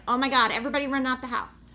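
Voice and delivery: fast, loud alarmed call to get out; panicked yell. Retold or imitated. Mom yelling at her family to flee the house, a fast loud panicked call. Alarm says carbon monoxide detected.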